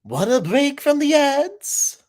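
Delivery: high slow ad-announcer read. Retold or imitated. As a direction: read it like a promo. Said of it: "reading an ad prompt".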